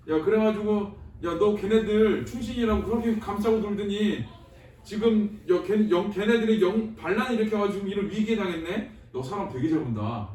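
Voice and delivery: blunt casual scolding, words stumbling, sneer on 잘 at the end; mock scolding. Teacher voicing Chungryeol scolding the emperor, mock scolding. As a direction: tell the king off like a friend. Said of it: "이런 거야".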